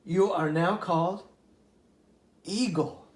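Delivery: lively read-aloud storytelling voice; storybook narrator giving each animal a voice; story narration. A narrator's reading. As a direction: read it like a bedtime fable. Reads a fable aloud.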